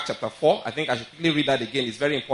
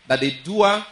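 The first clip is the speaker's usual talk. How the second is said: "doer" lifted higher; stress on doer; 6 semitones higher, 4 dB louder than usual. Real, not acted. Preacher stressing his key point to the congregation, emphatic on "doer". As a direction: hit "doer" with a raised pitch. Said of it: "I try to emphasize something".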